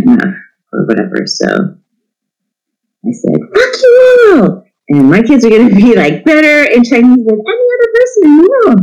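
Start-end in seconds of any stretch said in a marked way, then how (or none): 3.5-8.8 retold defiant outburst. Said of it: "which is ridiculous".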